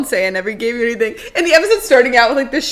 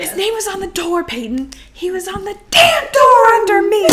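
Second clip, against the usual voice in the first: mock angry Brooke; 8 semitones higher than usual. Acting out Brooke's monologue.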